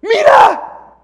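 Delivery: high, loud call for attention; loud high hey look; shout. Retold or imitated. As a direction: grab everyone's attention. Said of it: "hasta que dice".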